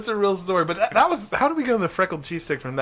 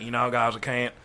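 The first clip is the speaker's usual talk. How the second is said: lower, lightly mocking excuse; reluctant friend; 3 semitones lower than usual. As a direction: imitate a friend bowing out, slow at the end. Imitating friend refusing to jump.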